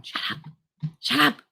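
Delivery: mock protest. Retold bedroom banter with boyfriend.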